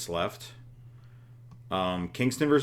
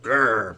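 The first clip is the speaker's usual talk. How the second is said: mock growl; 7 dB louder than usual. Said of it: "And Drew looks all upset".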